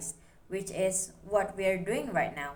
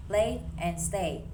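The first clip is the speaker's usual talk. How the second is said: Late and stay, the A sound held slowly; slow stress on the A of Late and stay; stressed endings, slowly; slower than usual. Shown as a demonstration. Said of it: "both end with stress A".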